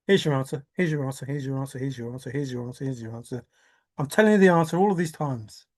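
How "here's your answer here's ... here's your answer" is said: mock taunting.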